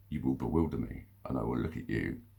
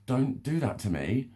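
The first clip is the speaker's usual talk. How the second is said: higher-pitched indignant protest; indignant retort; 5 semitones higher, 4 dB louder than usual. Retold or imitated. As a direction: push back hard at the accusation. Retorts to an accusation in quote.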